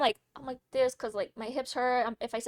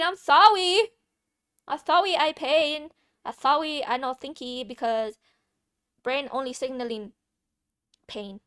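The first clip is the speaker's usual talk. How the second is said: put-on broken baby talk; 2 semitones higher, 6 dB louder, slower than usual. Mocking her own confused self.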